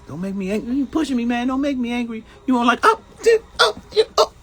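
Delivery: high, loud, strained mock Hulk; Hulk impression. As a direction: scream it like a Hulk losing control, hammed up. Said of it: "We used to quote stuff from the shows".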